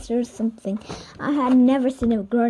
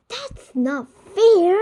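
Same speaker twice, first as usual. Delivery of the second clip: high, slow whine; whiny complaint; 8 semitones higher, 4 dB louder, slower than usual. Acted. Neil protests the donation, whining. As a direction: drag out the protest.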